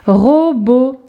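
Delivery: "Robot" in two long syllables; drawn-out teacher's demonstration. Shown as a demonstration. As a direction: stretch each syllable for young readers. Exercise word for young readers.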